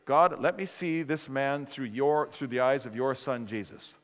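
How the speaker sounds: retold earnest prayer. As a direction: pray deliberately, settling down on the last word. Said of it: "And then I prayed".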